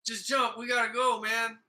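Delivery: imitating friends urging him to jump; urgent friends. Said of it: "And they're like".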